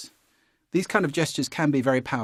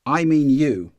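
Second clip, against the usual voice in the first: loud, accusing jab of a line; a hammed-up accusing demo; pointed blame; 4 semitones higher, 10 dB louder, slower than usual. Shown as a demonstration. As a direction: point the finger at them with your voice. Demonstrating the pointing blamer gesture.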